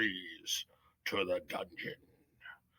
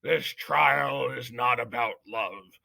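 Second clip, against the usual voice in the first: head mouse shouting from atop the bricks at Despero; shouting judge; 9 dB louder than usual. A narrator's reading. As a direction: thunder it down from above. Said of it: "shouted the most very honored head mouse".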